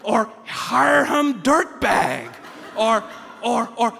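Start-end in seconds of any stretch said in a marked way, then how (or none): 0.5-2.3 "Harham Dirtbag" as a slow botched name; mangled name. Retold or imitated. People mispronouncing his name as "Harham Dirtbag", slow and mangled. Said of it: "if people say it's".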